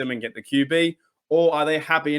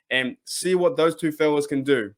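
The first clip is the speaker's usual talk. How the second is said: ordinary talk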